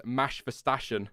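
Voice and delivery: put-on toddler's "Max Verstappen", said as "Mash Vestashen"; "Max Verstappen" slurred into "Mash Vestashen"; nephew's mispronunciation. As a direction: say "Max Verstappen" with sh sounds, like a three-year-old. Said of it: "his favourite driver is".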